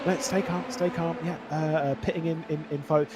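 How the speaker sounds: soothing, steady radio call; race engineer voice. Retold or imitated. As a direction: talk him down like a child. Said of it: "my race engineer voice".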